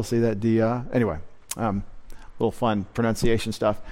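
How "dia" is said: dia with the accent on the final A; stress on second syllable. Shown as a demonstration. Teacher pointing out the Greek accent to students, dia stressed on second syllable. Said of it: "accent is on the second syllable".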